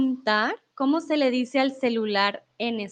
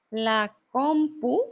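slow clear model word; much slower than usual. Shown as a demonstration.

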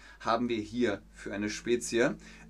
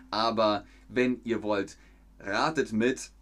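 betont langsam, Wort für Wort; langsamer sprechen; slower than usual. Real, not acted. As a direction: bewusst gedehnt für die Zuschauer. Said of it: "Ich kann auch versuchen, ... langsamer zu sprechen". (langsam und deutlich für den Chat)

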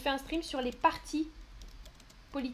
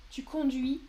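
slow example sentence; slower than usual. Shown as a demonstration. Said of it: "Mieux, ça qualifie le verbe".

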